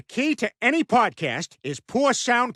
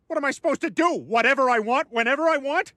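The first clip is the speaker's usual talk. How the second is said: gleeful; 5 semitones higher than usual. Acted. Peter gleeful over losing his wife.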